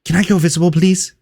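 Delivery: a hint of a small pleading imp; Ixbit whispering. Imp under cover of night asking permission, mock whisper. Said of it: "Ixbit whispers".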